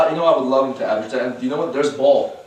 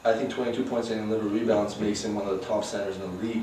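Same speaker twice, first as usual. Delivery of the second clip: hushed, much softer repeat; whispering on the phone; 4 semitones lower, 8 dB quieter than usual. Real, not acted. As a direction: drop it to a whisper. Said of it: "Why are you whispering?".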